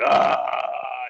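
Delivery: sustained mock holler; long relieved scream. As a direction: let out one long imitated yell of relief. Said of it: "screaming that out as long as possible".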